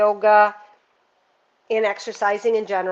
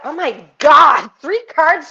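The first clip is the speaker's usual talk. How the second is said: excited gasp; 5 semitones higher, 10 dB louder, slower than usual. Real, not acted. Excited over the cards drawn.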